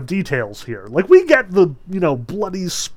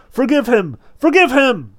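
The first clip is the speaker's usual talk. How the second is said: chorus pleading; 9 semitones higher, 7 dB louder than usual. A narrator's reading. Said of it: "Separate voices, mostly women".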